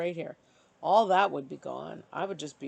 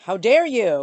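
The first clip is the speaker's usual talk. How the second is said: imitated outrage; 3 semitones higher, 8 dB louder than usual. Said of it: "what if they say".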